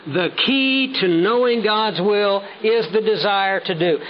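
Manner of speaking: slow, measured build to "to do"; stress on DO. Shown as a demonstration. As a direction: set "do" apart at the end, deliberately. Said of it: "I underline and emphasize the word do".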